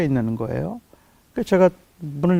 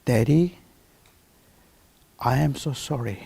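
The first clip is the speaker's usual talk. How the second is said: slow, hushed, each phrase drawn out with long pauses; a hurt boy saying sorry and thanks barely above a whisper; soft apology; 4 semitones lower, 3 dB quieter, much slower than usual. Retold or imitated. 수술 후 차 뒷자리에서 아빠에게 건네는 아들의 조용한 사과와 감사. Son's quiet words after surgery.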